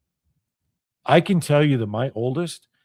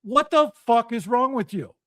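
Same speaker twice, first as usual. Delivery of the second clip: indignant retold challenge, pitched up; incensed; 5 semitones higher than usual. Repeating what was said across the table to friends, incensed. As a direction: re-enact being appalled at a friend. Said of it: "I was so incensed".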